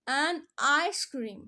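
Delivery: "ice" drawn out slowly on a clear "eye" vowel; vowel-sound demo. Shown as a demonstration. Teacher showing learners the vowel sound, "ice" slowly stretched. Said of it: "आई की sound आ रही है".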